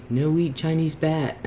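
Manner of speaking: lightly put-on Chinese accent; a hint of a Chinese accent, broken English. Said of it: "In best Chinese accent".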